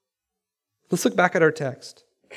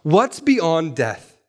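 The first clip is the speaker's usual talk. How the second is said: slow question; much slower than usual. Shown as a demonstration. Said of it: "the question ... is this".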